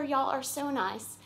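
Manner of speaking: a lighter Southern y'all, falling at the end; light Southern accent. Pretend. Repeating her thanks to the congregation, in a light Southern accent. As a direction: ease off the Southern accent, just a hint. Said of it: "bring out a little bit of my Southern accent".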